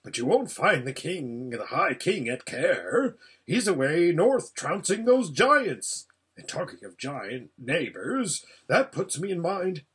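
lightly voiced, chatty hedgehog; rambling hedgehog. Hedgehog explaining the king is away, rambling. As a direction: ramble on like a rustic little creature.

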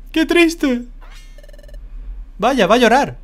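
mock pity. Mock pity for sad boss.

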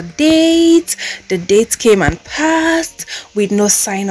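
letter read-aloud. Acted. Brand calling out an influencer over unpaid money, formal letter reading. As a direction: read out a formal complaint, slowing for emphasis.

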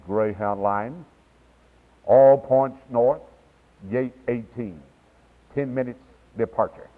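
low, slow station call; a lightly put-on bus terminal announcer drawing out each line. Shown as a demonstration. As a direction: call the departure like a depot loudspeaker. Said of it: "Let's see if I can announce it".

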